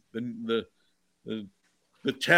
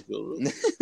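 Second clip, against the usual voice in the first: casual greeting; 2 semitones lower, 5 dB quieter than usual. Shown as a demonstration. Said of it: "how we all say it to each other".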